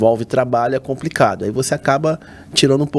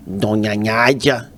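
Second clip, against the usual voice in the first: slow, nasal-ish "Donha Nádia" with the N as NH; André's voice; much slower than usual. Retold or imitated. Imitating the janitor greeting the mother, slow. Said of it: "a voz dele é uma voz mais ou menos assim".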